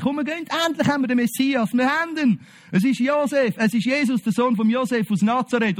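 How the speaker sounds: a preacher playing an overjoyed disciple, rushing; excited friend. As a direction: blurt it out like breaking great news. Friend excitedly announces the Messiah.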